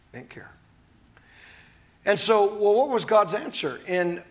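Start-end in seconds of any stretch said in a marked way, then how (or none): 0.1-0.5 P=A; near whisper. Real, not acted. Repeated, fading further.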